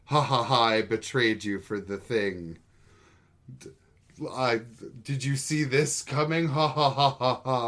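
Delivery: mock evil cackling villain, slowed; unhinged villain. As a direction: ham up a gloating traitor's laugh. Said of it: "and she's like".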